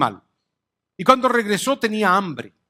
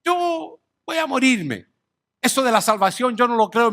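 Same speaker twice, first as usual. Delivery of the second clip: lightly acted defiant sinner, a touch higher-pitched; mock careless unbeliever; 3 semitones higher than usual. Preacher voices someone rejecting salvation to live for today, lightly mocking. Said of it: "Es lo mismo que usted diga".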